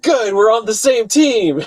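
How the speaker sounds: half-hearted shouted retort; retold yell back. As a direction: podcaster retelling yelling back at the lady. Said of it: "I yell back at her".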